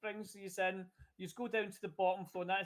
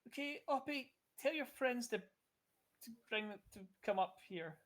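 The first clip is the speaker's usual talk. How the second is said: character voice; 4 semitones higher, 4 dB quieter than usual. Acted. NPC voiced by GM.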